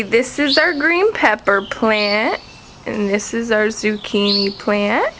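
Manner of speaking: slow modelling. Shown as a demonstration.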